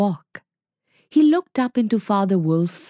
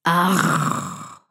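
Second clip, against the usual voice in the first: tiger's charge roar; 2 semitones lower than usual. A narrator's reading. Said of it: "the full-throated".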